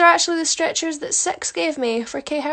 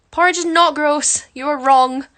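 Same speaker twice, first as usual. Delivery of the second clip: mock indignant; 3 semitones higher, 7 dB louder than usual. Real, not acted. Defending porridge.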